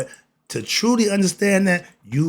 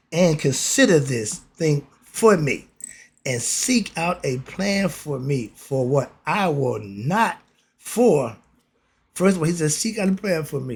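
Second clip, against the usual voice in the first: slow, weighty reading of scripture. Acted. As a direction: read the king's words slowly and gravely. Reads scripture slowly.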